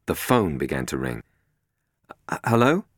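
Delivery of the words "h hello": cautious. A narrator's reading. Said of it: "he said cautiously".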